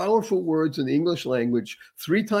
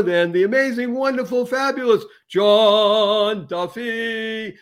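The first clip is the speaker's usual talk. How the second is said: building announcer intro, louder, stretching out the name; host introduction; 5 semitones higher, 4 dB louder, slower than usual. Acted. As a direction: hype up the guest's name like a showman.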